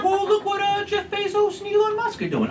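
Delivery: high, gushing awe; breathless wow at the billionaires; awed fan. Retold or imitated. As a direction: gush like a starstruck fan. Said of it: "everybody's like".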